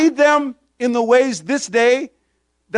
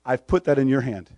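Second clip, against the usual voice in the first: God answering, mildly voiced; 11 semitones lower, 6 dB quieter than usual. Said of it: "and he's saying".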